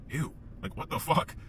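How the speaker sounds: hushed, breath-heavy recoil; disgusted. Retold or imitated. Seeing how he treated people, disgusted. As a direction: say it softly in repelled disbelief. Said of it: "I was fucking disgusted".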